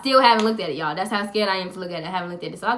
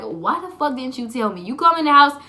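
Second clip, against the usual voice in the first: raised, loud, rapid-fire mock scolding; mom scolding; 4 semitones higher, 7 dB louder than usual. Mom scolding her child for not telling, loud fussing. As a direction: build into a fussing rant, imitating mom.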